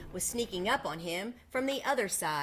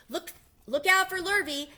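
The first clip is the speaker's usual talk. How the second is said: high, loud warning call; cows calling warning; 10 semitones higher, 7 dB louder than usual. A narrator's reading. Cows warning Wilbur about Lurvy, loud high call. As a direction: warn him like anxious cows. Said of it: "called the cows".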